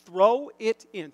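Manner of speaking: 구호처럼 천천히 또박또박; slow coaching chant, word by word; coaching call. Shown as a demonstration. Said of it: "I say it over and over again".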